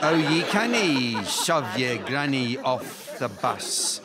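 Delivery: drawn-out Scottish rhyme recital. Pretend. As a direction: lean harder on the Scottish accent, slowly. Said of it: "my Scottish accent is too thick".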